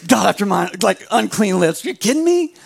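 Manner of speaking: King David confesses and protests; David protesting. Retold or imitated. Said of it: "King David's like".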